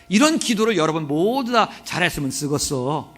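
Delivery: touch of Jeolla dialect; lightly Jeolla-flavored preaching. Shown as a demonstration. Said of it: "이거는 또 전라도 사투리로".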